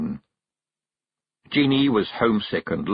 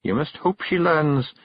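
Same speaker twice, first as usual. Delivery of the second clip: higher Scottish firm wife; stern Kelda; 8 semitones higher than usual. Acted. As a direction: lay down the law. Jeanie closing.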